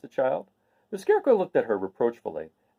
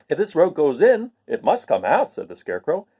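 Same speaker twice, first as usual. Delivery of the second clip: raised, louder scarecrow voice; a bright straw man who cannot understand; 2 semitones higher, 3 dB louder than usual. Acted. Scarecrow answering Dorothy about Kansas, raised and louder.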